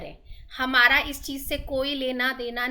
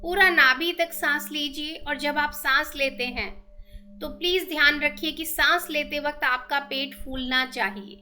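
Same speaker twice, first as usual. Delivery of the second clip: measured meditation guide with long pauses; steady, even-toned breathing instructions; guided meditation; 10 dB louder than usual. Real, not acted.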